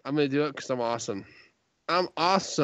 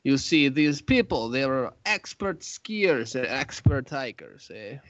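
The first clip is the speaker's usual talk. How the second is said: mock-Russian storyteller accent; put-on Russian accent. Podcaster telling co-host about the skiers, put-on Russian accent. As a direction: tell it in a comic Russian accent. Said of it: "Should I do the Russian accent".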